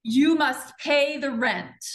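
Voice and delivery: slow, loud, menacing landlord; villain voice. Acted. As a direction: lean into the villain's demand. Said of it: "you're Snidely right now".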